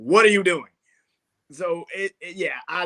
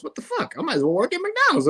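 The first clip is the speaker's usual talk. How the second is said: higher, mock-indignant player griping; imagined player rant; 10 semitones higher than usual. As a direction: play the fed-up player, lightly. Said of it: "I'm like, Man".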